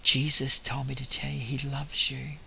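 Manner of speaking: softened voice, imitating a whisper in someone's ear; hushed but still voiced; retold gentle murmur. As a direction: say it softly, as if leaning in close. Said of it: "I whispered in his ear".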